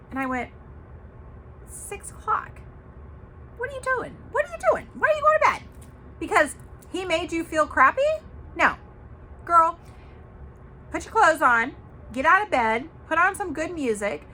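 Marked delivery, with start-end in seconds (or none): 1.7-8.8 high-pitched mock disbelief, getting louder; squealed, building what-are-you-doing outrage; retold incredulous scolding. Acts out scolding friend about bedtime. 9.4-14.3 loud, higher rallying orders; punchy girlfriend-to-girlfriend urging; retold pep talk.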